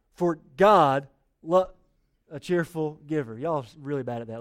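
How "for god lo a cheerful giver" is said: slow unison reading, trailing off; slow read-along. Shown as a demonstration. Pastor leads congregation in reading verse, slow and drawn out. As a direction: read it slowly aloud with the church. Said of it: "Read this with me out loud".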